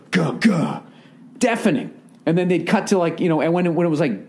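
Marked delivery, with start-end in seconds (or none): 0.1-0.8 heartbeat boom imitation. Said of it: "giant heartbeat would go".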